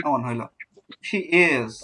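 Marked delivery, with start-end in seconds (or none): 1.1-1.7 "She is" with light she, weighted is; stress on IS. Shown as a demonstration. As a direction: lean on "is" after a light "She". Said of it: "is অনেক ভারী হইলো". ("She is"-এ is-এর উপর জোর)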